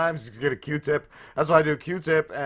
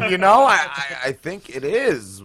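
laughing through quote; 6 dB louder than usual. Retold or imitated. Teller fooling the gullible coworker, laughing out loud. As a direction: fight back laughter while playing along. Mocking coworker about frostbite.

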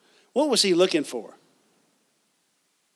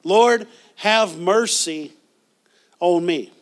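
slow, drawn-out plea, louder; a beggar's slow, louder second cry; 5 dB louder, much slower than usual. Retold or imitated. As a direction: stretch Lord out like a desperate cry for help. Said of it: "he cried the second time".

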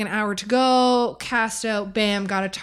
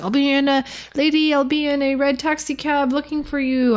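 light mock Spanish accent, a bit higher; 5 semitones higher than usual. Retelling the Cuban guide at the hotel, light mock Spanish accent. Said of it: "that was me trying to be Spanish".

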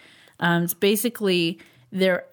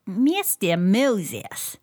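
slow drawn-out echo; much slower than usual. Pretend. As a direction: stretch each syllable slowly. Echoes the name, drawn out.

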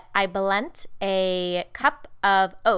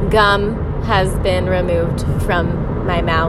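slow, official announcer read; mock formal announcement; slower than usual. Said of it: "I repeat".

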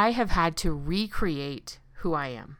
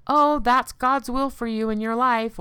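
mock pious; 5 semitones higher than usual. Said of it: "and say".

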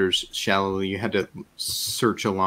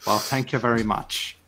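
put-on rural Marish fisherman's accent. Fisherman thanking someone for praise, Marish accent. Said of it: "That's a good accent".

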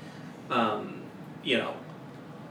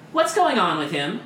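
higher, louder alarmed guard; alarmed shout; 8 semitones higher, 6 dB louder than usual. Acted. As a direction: call out in alarm, pitched up. Guard alarmed at sick prisoner.

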